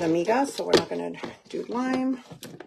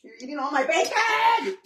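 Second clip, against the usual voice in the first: playful fake indignation, a bit higher; mock outrage; 6 semitones higher than usual. Mom catching her son snacking on her bacon, playful mock outrage. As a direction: scold him in jest, not meaning it.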